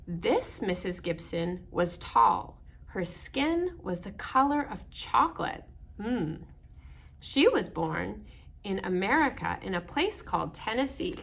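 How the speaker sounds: measured storybook narration; reading to children. Acted. Reading picture book aloud.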